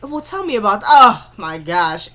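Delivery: a touch of annoyed mimicry; annoyed mock quote. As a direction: parrot him, fed up. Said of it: "I was so annoyed by him".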